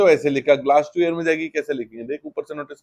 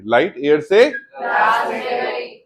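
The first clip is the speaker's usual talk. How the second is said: slow dictation; 5 semitones higher, much slower than usual. Shown as a demonstration. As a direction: read it out slowly like dictation for students to copy. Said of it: "what will I say?".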